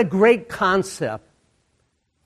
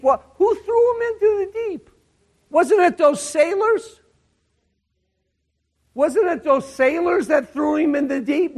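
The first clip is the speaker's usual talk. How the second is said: high-pitched, puzzled objection; high, disbelieving questions; incredulous questioning; 10 semitones higher than usual. Acted. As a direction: play the baffled doubter, pitch jumping up. Voices a naive objection, then rebuts it.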